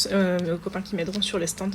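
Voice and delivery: strained, sore throat voice; talking through a sore throat. Real, not acted. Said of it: "j'ai vraiment du mal à parler, j'ai mal à la gorge".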